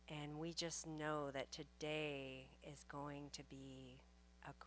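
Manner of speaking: soft, calm blessing voice; guided blessing. Acted. Minister blessing the congregation in calm prayer voice. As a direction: ease the room into stillness.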